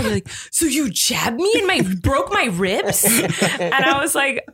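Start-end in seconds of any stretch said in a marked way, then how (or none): 0.5-3.0 mock accusation, slowing right down; mad sleeper, imitated. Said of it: "He was so mad at me".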